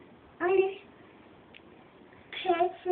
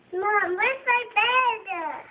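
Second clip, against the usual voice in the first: slow drawn-out call to mom; yelling across the room; slower than usual. Real, not acted. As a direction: call out across the house, stretched. Child calls to mom in other room.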